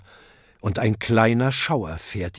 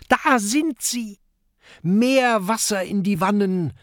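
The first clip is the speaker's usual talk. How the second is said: calling out; 10 semitones higher than usual. Acted. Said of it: "ruft Kokosnuss".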